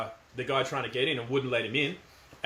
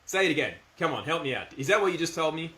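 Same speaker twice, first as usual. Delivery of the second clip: firm mock disbelief; 2 semitones higher than usual. Shown as a demonstration. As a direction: act stunned but stay firm. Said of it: "definitely being firm".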